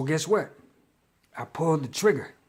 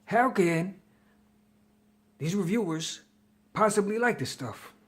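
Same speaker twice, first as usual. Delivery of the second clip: higher, incredulous outburst; a replayed "what the hell" of disbelief; mock disbelief; 5 semitones higher than usual. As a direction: act stunned that anyone likes this. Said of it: "And I said to myself".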